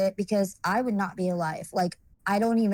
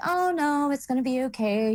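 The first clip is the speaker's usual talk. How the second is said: higher-pitched, airy brush-off of a warning; retold breezy dismissal; 5 semitones higher than usual. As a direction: wave the worry away in a high voice.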